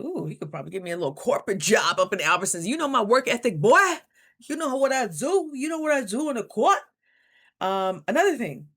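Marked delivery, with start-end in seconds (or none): 0.0-6.8 playful boast. Pretend. Imagined pitch to director.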